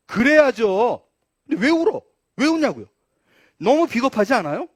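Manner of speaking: loud, high challenge to the listeners; indignant preaching. Real, not acted. Preacher challenging why Peter wept, indignant. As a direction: press each question hard.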